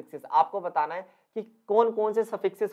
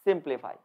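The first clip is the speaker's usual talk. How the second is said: सिंप्लीफाई falling, with फाई almost dropped; stress before the suffix; 3 semitones lower, 4 dB quieter, faster than usual. Shown as a demonstration. Teacher repeating the rule's result, सिंपल stressed in सिंप्लीफाई. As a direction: clear सिंपल, then a faint falling फाई. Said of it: "फाई की तो बिल्कुल ही sound".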